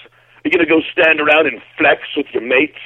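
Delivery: imitating the drunk strongman. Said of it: "He's like".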